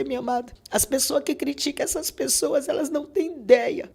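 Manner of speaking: high, rising preacher's appeal; preaching. Acted. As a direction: preach it to the congregation with fervour. Preaches at listeners mid-testimony. (pregação fervorosa, em tom alto)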